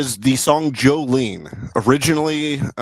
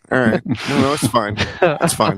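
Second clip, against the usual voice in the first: faint deathbed whisper; slower than usual. Acted. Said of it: "of, of a dying elderly man".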